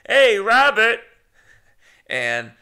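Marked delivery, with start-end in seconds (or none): 0.0-1.0 loud, high nasal-free shout as Ray Romano; Ray Romano impression. Auditioning with a loud Ray Romano call. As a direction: bark his name like Ray Romano. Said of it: "I tried Ray Romano".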